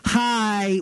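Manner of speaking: put-on high, drawn-out little-kid hi; imitated toddler greeting. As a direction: lightly play a friendly toddler. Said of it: "and he's like".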